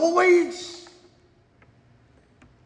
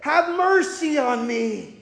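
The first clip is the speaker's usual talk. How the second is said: beggar's cry for mercy; 4 semitones higher than usual. Acted. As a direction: call out to Jesus like a desperate blind beggar. Preacher voices blind beggar's cry.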